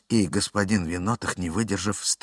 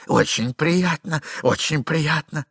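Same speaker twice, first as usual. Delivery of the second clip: awkward greeting; 7 semitones higher, 3 dB louder, slower than usual. Acted. Husband greets lover awkwardly.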